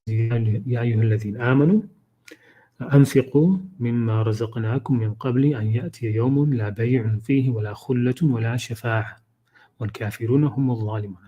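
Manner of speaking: quick, fluent Arabic recitation; Quran recitation. Acted. Teacher recites the verse to the class, fluent and quick. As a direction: reel off the verse in a recited cadence.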